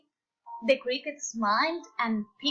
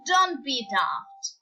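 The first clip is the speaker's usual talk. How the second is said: mocking; 3 semitones higher, 3 dB louder than usual. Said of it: "The animals all laughed".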